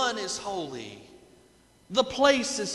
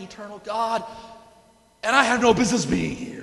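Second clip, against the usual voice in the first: paraphrased Isaiah; 6 semitones higher, 5 dB louder than usual. Retold or imitated. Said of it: "The image here is".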